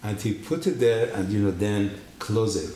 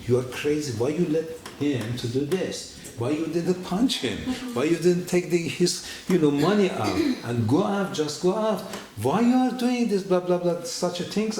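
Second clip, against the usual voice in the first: rising, exasperated self-reproach in a higher voice; self-scolding; 5 semitones higher than usual. Retold or imitated. Scolding himself after being beaten.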